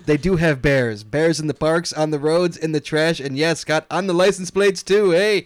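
mild put-on Canadian accent, a bit hammy. Reading a Canadian listener's email to cohost, mock Canadian accent. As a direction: read the email like a joking Canadian. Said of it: "your Canadian accent's worse than mine".

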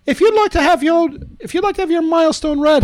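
fast, put-on Irish brogue; a podcaster slipping into an Irish accent for fun. Shown as a demonstration. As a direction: rattle it off in a jokey Irish accent. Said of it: "I'm still doing the brogue".

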